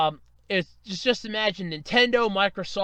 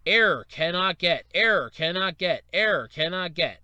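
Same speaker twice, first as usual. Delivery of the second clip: site error message; 3 semitones lower than usual. Acted. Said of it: "hit with a site error message".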